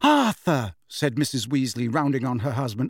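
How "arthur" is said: high, loud demand for support; urgent appeal. A narrator's reading. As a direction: round on your husband. Rounding on husband for support.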